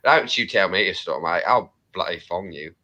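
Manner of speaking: mock London English accent; British accent. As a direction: put on a rough-and-ready British accent. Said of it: "speak like a British person".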